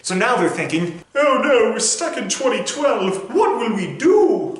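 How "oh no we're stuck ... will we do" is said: panicked. Acted. Characters panic, stuck in time.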